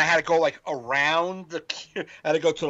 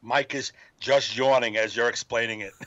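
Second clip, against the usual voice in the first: laughing; 5 semitones lower than usual. Retold or imitated. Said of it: "he goes, laughing my ass off".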